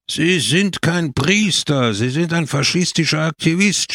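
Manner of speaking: storyteller's restrained yell; mild narrated shout. A narrator's reading. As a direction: cry out the accusation with swooping pitch. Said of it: "schrie der Häuptling aus der Stadt".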